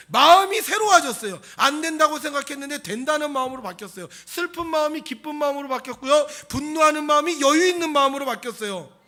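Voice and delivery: high, loud, emphatic sermon climax; full-force preaching. Real, not acted. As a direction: proclaim each change at full volume. (힘차게 외치는 설교조)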